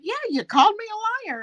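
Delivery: high mocking quote of a friend; imitating Natasha. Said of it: "Natasha's like".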